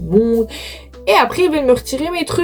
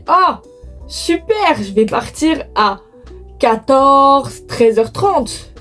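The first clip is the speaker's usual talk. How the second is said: mock cheerful; 4 semitones higher, much slower than usual. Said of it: "je me suis dit".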